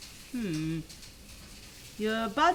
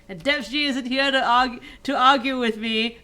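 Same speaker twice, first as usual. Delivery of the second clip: louder, higher triumphant boast; gleeful gloat; 4 semitones higher, 9 dB louder than usual. Real, not acted. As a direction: crow about getting your way. Gleeful boast, no rival present.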